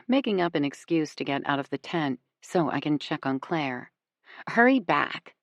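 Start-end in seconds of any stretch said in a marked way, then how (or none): 4.5-5.3 smirking. A narrator's reading. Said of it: "she says with a smirk".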